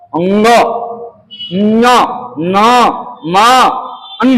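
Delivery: "अंग, न, न, म, अन" sounded through the nose; spaced-out nasal sounds "अंग, न, न, म, अन"; nasal consonant demo. Shown as a demonstration. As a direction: say "अंग, न, न, म, अन" separately, letting each come out of the nose. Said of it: "नाक से निकल रहा".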